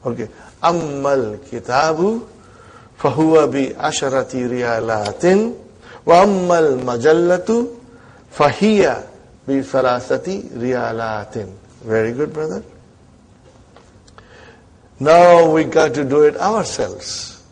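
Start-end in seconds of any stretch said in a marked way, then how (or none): 0.6-11.5 slow school dictation. Shown as a demonstration. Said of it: "I will read it again".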